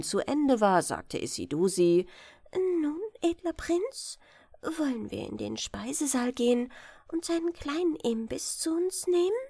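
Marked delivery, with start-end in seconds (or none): 2.5-9.4 a hint of a courtly young lady inviting a guest; the princess politely invites the hungry prince to eat, lightly higher; gracious princess.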